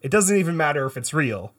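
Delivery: a hint of a bad British accent; lightly held British accent. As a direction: keep the mock British accent going. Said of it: "affectation that I am putting on right now".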